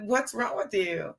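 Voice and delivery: quietly stern mother questioning her son; hushed scolding. Retold or imitated. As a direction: keep it down, you're in church.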